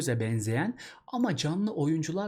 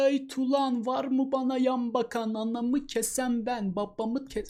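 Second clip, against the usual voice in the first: high, swaggering bully voice; mock menacing braggart, higher and slow; Tuzsuz Deli Bekir; 8 semitones higher than usual. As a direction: play a boastful street tough. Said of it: "Tuzsuz Deli Bekir geldiğinde".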